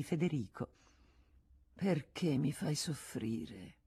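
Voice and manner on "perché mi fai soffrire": plaintive. Acted. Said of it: "le disse".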